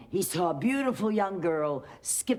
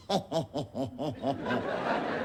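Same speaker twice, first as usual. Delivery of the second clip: witch cackle; 5 semitones lower, 3 dB quieter than usual. A narrator's reading. Witch cackles before her plan.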